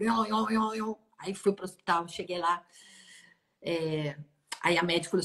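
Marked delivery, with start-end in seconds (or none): 0.0-0.9 repeated wailing vehicle sound; imitated siren noise. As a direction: mimic an ambulance siren with the voice. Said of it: "E aquele barulho".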